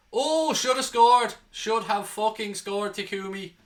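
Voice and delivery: high, loud, drawn-out "oh"; anguished near-miss cry. Real, not acted. Fan watching his team miss a chance, anguished cry. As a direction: groan it out long and high at a missed chance.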